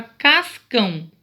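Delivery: "cascão" split in two, weight on the final "cão"; teacher sounding out "cascão" with a strong last syllable; stressed syllable shown. Shown as a demonstration. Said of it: "a sílaba mais forte".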